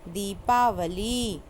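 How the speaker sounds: दीपावली read slowly and evenly; teacher reading दीपावली slowly. Shown as a demonstration. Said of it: "sound के according ही हमको लिखना".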